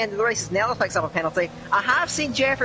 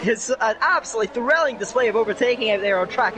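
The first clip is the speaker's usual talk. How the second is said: winded after excited commentary; out of breath. Real, not acted. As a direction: talk while out of breath. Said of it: "I'm a bit out of breath after that".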